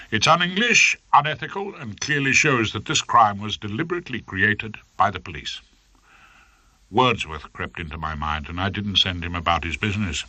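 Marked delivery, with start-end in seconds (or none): 0.1-5.6 rising indignant barrister, pitch up at the start; warming courtroom plea. Acted. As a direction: build the outrage for the judge. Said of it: "I warmed to my task".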